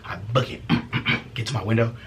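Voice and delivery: ordinary talk, nothing marked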